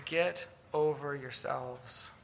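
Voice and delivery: soft, low, measured rebuke; nicely put rebuke. Acted. Paul telling arrogant Christians off, put nicely and softly. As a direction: deliver the rebuke gently and slowly. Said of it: "He's just not gonna say it that nicely".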